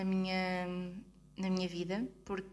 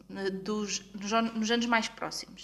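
choking on words. Real, not acted. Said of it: "desculpa, engasguei-me aqui um bocadinho".

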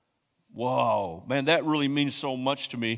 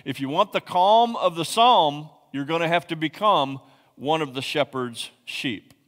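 repeated with more force, psalm lifted; emphatic repeat of the key line; louder repeat; 3 dB louder than usual. Shown as a demonstration. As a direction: say it again, stronger. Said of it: "Let me say that again".

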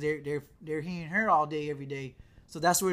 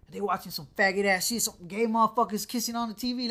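imitated rant, louder and higher; heated mock rant, pitched up; a rapper going in; 3 semitones higher, 5 dB louder than usual. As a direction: retell it as an outraged dad going in. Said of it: "Like, he going in".

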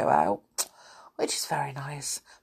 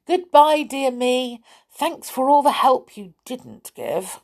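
hurried farewell; 6 semitones higher, 4 dB louder than usual. Acted. Binky hurries off.

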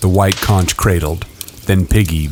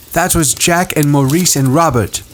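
put-on higher boy voice; Ralph voice; 9 semitones higher than usual. A narrator's reading. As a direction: voice young Ralph.

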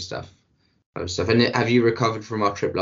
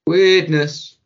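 a higher, louder drawn-out weirdness; mock spooky weirdness; 8 semitones higher, 8 dB louder than usual. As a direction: sell the word like a creepy mystery. Absurd comedy bit, mock spooky.

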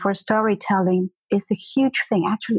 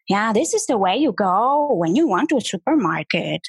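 imitating a student's mildly grumpy sentence melody; a hint of annoyance on a friendly sentence; grumpy intonation. German teacher imitating her Vietnamese student, mildly grumpy tune. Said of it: "her intonation was annoyed or grumpy or pissed off".

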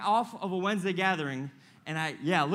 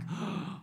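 awed gasp; 2 semitones higher, 7 dB quieter than usual. Retold or imitated. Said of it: "being like".

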